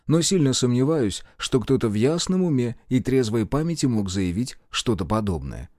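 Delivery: usual speaking voice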